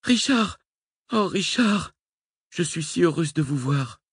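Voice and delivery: appel ravi, bien plus aigu; joie débordante. A narrator's reading. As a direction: se jeter dans ses bras, folle de joie. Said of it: "Ivre de joie". (Nicole retrouve Richard, joie aiguë)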